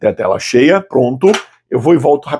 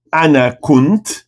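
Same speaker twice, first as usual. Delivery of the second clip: "ana... kunt", slow and separated; word-by-word demo; much slower than usual. Shown as a demonstration. Teacher builds the Arabic answer piece by piece, slowly. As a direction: say "ana kunt" slowly, leaving room for the translation.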